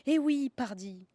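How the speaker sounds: slow and loud, knowing and drawn out; emphatic southern pardi. Acted. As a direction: lean on it like an old southerner. Southern interjection punctuating the point.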